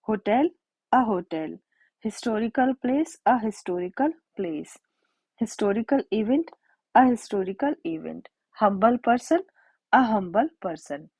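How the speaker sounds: very slow, word by word, each h clearly sounded; slow dictation. Shown as a demonstration. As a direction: read historical and humble out slowly for the class. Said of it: "इनको pronounce भी एच से ही किया जाता है". (धीमी गति से, हर शब्द साफ़-साफ़ बोलते हुए)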